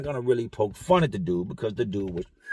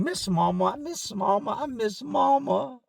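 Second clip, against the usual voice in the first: mock crying; 8 semitones higher than usual. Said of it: "screaming, yelling, crying".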